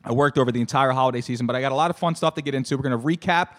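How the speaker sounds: slightly hoarse, worn-out voice; hoarse from yelling. Real, not acted. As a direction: talk through a tired, scratchy throat. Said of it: "My voice is a little shot".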